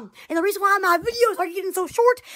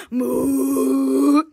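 mooing cow; 4 dB louder than usual. Retold or imitated. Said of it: "this mooing cow".

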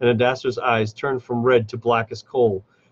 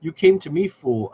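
higher and louder, hissing at a fool; hissed threat; 5 semitones higher, 3 dB louder than usual. A narrator's reading. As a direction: snarl it down at the cornered orc. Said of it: "Adasser hissed".

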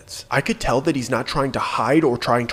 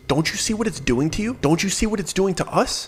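higher, tearful pleading; tearful plea; 7 semitones higher than usual. Retold or imitated. Guide begging the two friends to stop, tearful. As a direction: beg them to stop, voice near tears. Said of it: "he just has tears running down his face".

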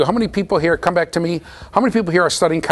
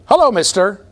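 high, louder mimicked greeting; store manager's voice; 6 semitones higher, 5 dB louder than usual. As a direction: mynah bird copying a store manager. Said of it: "It was the voice of the store manager".

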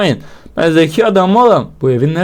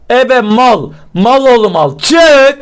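shout; 5 semitones higher, 3 dB louder, much slower than usual. Real, not acted. Frustrated shouting at game.

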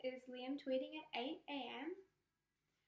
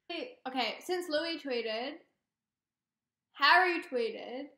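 excited; 12 dB louder, slower than usual. Real, not acted. Excited announcement.

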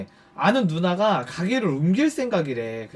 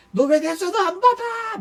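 mock angry demand; 13 semitones higher, 3 dB louder than usual. Former boss phones him about ignored calls, mock-irate. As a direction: imitate an irate caller in a squealing high voice.

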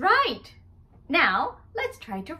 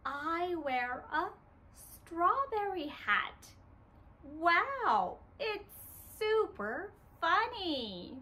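put-on softer, letting children lead; quieter; 7 dB quieter, slower than usual. Shown as a demonstration. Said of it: "let's say it together".

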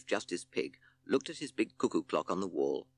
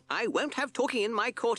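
cross, higher judge's snort; 4 dB louder than usual. Acted. Justice Pig scolds the court, cross and higher. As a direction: huff it out like an annoyed pig. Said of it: "he snorted".

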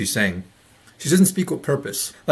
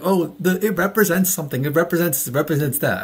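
higher-pitched mock explanation, easing back down; imitating her; 4 semitones higher than usual. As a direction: lightly mimic her vague explanation, pitched up at first. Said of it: "She'd be like".

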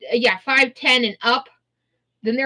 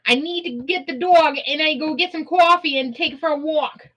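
sassy attitude; 3 semitones higher than usual. Acted. Refusing to deal with the corpses, sassy. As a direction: wave it all off with attitude. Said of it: "we have to get that attitude with that accent".

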